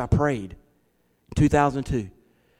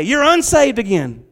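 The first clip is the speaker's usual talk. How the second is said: high, sing-song mock praise of a good boy; mocking pat on head; 8 semitones higher, 4 dB louder, slower than usual. Pastor mocking the idea God saves good boys, high sing-song.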